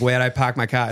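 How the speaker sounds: mock heavy Boston accent, R's dropped; Boston-accent impression, lightly done; exaggerated Boston accent. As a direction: imitate a caricature Boston local. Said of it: "like, Ben Affleck walking around".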